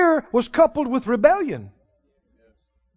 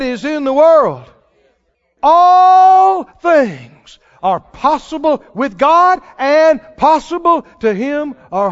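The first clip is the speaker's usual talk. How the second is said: louder, slowed, stretched; fervent preaching; 3 semitones higher, 6 dB louder, slower than usual. Real, not acted. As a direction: preach it with building fire. Preaching scripture climax.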